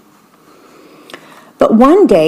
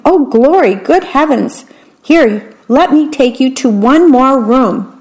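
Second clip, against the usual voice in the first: lightly raised, gushing king; delighted king; 4 semitones higher than usual. Acted. King delighted with the gold, lightly gushing. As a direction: gush like a greedy king.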